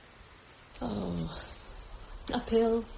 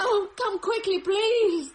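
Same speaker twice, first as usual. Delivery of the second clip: pleading in fear; 5 semitones higher than usual. Acted. Begging on the phone in fear.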